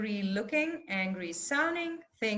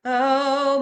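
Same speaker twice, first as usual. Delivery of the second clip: loud held "oh" of indignation; indignant oh; 2 semitones higher, 10 dB louder than usual. Shown as a demonstration. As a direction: let indignation out on one vowel. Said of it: "maybe it's indignation".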